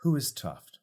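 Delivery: demanding who this stranger is; suspicious Candle. Acted. Candle questioning the bard.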